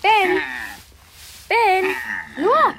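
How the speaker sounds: excited calling out. Acted. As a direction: call out to him, thrilled.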